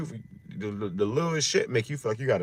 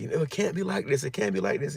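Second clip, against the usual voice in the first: whiny complaining quote; 7 semitones higher than usual. Retold or imitated. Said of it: "he's like".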